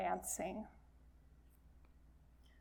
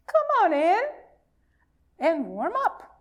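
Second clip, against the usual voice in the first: much higher, louder eager invite; cheerful welcome; 6 semitones higher, 4 dB louder than usual. Acted. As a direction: sing out the welcome. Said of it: "they say".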